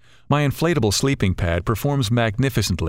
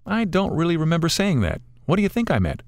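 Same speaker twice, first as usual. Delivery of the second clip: higher-pitched friend's voice, questioning; a lightly voiced friend answering with a puzzled question; lightly voiced Rich; 8 semitones higher than usual. A narrator's reading.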